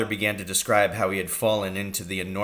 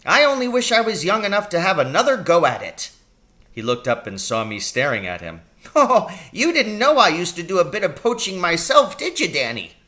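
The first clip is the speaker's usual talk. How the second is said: higher, louder, kindly fussing doctor; a brisk country doctor fussing over his patient; little old doctor voice; 10 semitones higher, 7 dB louder than usual. A narrator's reading. Doctor asking his injured patient about the pain.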